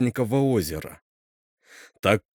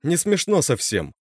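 a sharp, raised exclamation; indignant outburst, pitched up; exclaiming; 5 semitones higher than usual. Acted. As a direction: cry it out, stung by the joke. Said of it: "воскликнула Катя".

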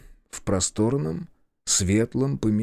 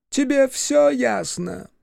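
menacing boss; slower than usual. A narrator's reading.

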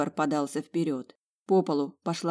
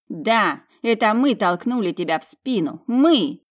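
contemptuous gloating; 5 semitones higher, 4 dB louder than usual. A narrator's reading. Twin gloating at her sister.

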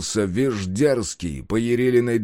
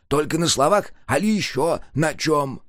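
higher, eager asking; eager question; 6 semitones higher than usual. A narrator's reading. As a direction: ask greedily, leaning in. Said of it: "жадно спросил". (жадно, с нетерпением)

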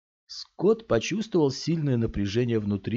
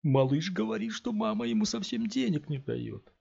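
higher, sing-song mimicking of the kid; mocking; 12 semitones higher than usual. A narrator's reading. Thug in cap mocks the boy to his friends. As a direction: throw his words back with a sneer.

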